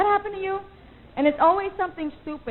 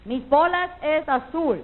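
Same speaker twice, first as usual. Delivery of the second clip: mock gringo Spanish; 5 semitones higher, 3 dB louder than usual. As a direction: show off bad high-school Spanish in an American accent. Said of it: "I had somebody go".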